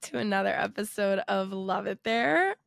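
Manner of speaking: nasal, stuffed-up sick voice; blocked nose. Real, not acted. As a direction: talk through a blocked nose. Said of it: "like I'm talking with my nose plugged".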